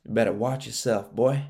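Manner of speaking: mock twang warning; lightly put-on twang; twangy imitation. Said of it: "the craziest twang in his voice".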